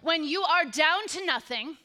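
rising preacher cadence, punching always; preaching voice. Shown as a demonstration. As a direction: call it out to the room like a preacher. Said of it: "find your very best preaching voice".

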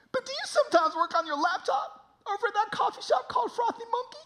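high, strained redneck voice; redneck stranger. Retold or imitated. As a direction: imitate an odd redneck asking earnestly. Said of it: "the most redneck human being you've ever met".

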